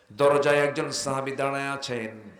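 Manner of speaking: ordinary talk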